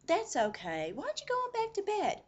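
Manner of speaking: mock-soothing, high and loud nurse voice; gentle nurse. Nurse sending a patient back to bed, mock gentle. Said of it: "trying to be real gentle".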